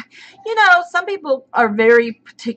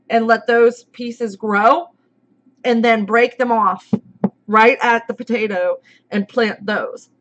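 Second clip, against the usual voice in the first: hiccuping; slower than usual. Real, not acted.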